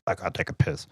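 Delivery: raspy voice of a heavy smoker; a lightly voiced smoker's croak; smoker's rasp. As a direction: rasp it out like a woman who smokes five packs a day. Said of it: "She smokes five packs a day".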